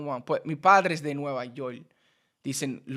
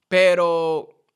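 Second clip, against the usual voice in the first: ordinary talk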